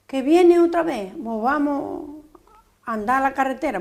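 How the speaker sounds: retold urgent cry to run for the road; urgent warning shout. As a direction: call out the alarm, then stretch out the last words. Retold alarm during the bombing flight.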